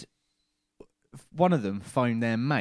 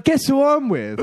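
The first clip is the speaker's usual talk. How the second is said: excited; 14 semitones higher, 8 dB louder than usual. Retold or imitated. Excited kid bragging on phone.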